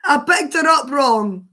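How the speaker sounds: loud, laughing confession; laughing as she admits it. Real, not acted. Laughing at own mistake.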